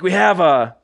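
high-pitched mock Russian accent; imitated Russian accent. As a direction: put on a Russian coach's accent. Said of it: "do a good Russian accent".

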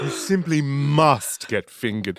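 put-on society voice; hammed-up socialite. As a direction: coax like a theatrical socialite. Joins the posh wine-drinker bit.

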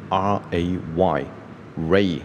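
R A Y spelt slowly, then ray; slow teaching read of ray; phonics demo. Shown as a demonstration. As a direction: spell out R A Y and blend it into ray. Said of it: "那我们先 念".

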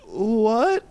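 drawn-out, very high rising question; hammed-up bewilderment; utterly baffled. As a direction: let the confusion soar into a high squeal. Climax of acted confusion.

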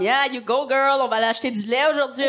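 lightly voiced Bronx hype girl. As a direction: pump yourself up like a Bronx girl. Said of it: "quelqu'un du Bronx".

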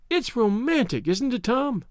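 high, sing-song question; lilting Daisy. A narrator's reading. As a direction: coax him with a lilt. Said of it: "Her voice sang".

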